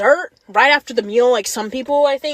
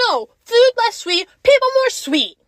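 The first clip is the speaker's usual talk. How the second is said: mock slogan; 8 semitones higher than usual. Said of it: "I'm like".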